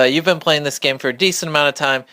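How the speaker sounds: normal talking voice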